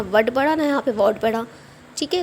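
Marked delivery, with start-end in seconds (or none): 0.0-1.2 वर्ड as misreadings, with "uh" then "aw"; wrong vowel in वर्ड, not the "oo" of wood; wrong readings of wood. Shown as a demonstration. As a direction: say वर्ड as mistaken takes on "wood". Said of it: "ना तो यहाँ वर्ड पढ़ा".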